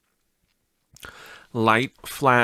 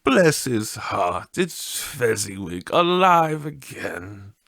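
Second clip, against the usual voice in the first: higher, slow, delighted cry; a lightly voiced old man thrilled to see his old master; an understated excited old man; great excitement; 4 semitones higher, slower than usual. A narrator's reading. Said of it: "Scrooge cried in great excitement".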